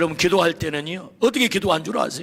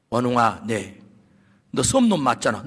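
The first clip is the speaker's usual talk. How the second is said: lower, calm divine voice; voice of God; 12 semitones lower than usual. Retold or imitated. God gently answers the complaining pastor, low and calm. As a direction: speak as God addressing him by name, lower. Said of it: "하나님께서 제 마음에 음성이 들려왔어요".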